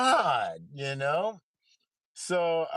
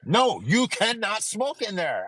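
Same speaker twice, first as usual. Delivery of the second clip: front desk voice; 6 semitones higher, 4 dB louder than usual. Retold or imitated. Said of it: "I get a call from the front desk".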